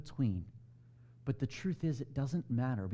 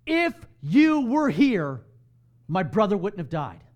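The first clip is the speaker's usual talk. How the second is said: grieving reproach; 5 semitones higher, 10 dB louder than usual. Retold or imitated. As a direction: throw the grief back at him. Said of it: "because there's emotion behind it, it sounds like she's blaming him".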